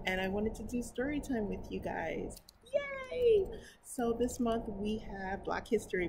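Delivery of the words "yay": high, bright little cheer of delight; excited cheer. Real, not acted. Cheering the viewers into story time, high excited yay.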